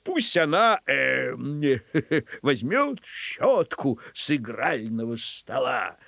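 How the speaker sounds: hemming and hawing with chuckles; governor thinking aloud. Acted. Governor invents a task for the dog, hesitant musing. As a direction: drag out the hesitations as ideas form. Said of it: "губернатор стал выдумывать".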